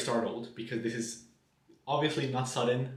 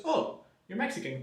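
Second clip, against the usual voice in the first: much higher pitched fake delight; lightly voiced sugary fundraiser; mock delighted surprise; 10 semitones higher than usual. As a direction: perk up like she just found something useful. Petitioner reacts to my nationality.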